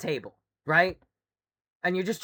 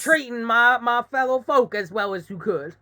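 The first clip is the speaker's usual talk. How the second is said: lightly put-on Southern folksiness; mock Southern accent; 3 semitones higher, 4 dB louder than usual. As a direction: protest as a mock Southern rebel. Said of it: "uneducated person from the South".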